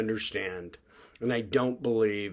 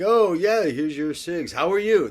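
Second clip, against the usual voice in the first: cheery clerk imitation; 7 semitones higher, 7 dB louder than usual.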